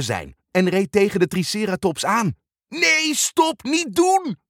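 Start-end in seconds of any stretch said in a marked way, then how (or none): 2.7-4.4 high, urgent calling out; urgent shout. Acted. Bob and Leo stopping Muk, urgent shout. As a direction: cry out to stop him. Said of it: "riepen Bob en Leo".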